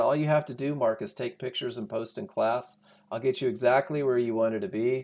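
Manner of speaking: usual speaking voice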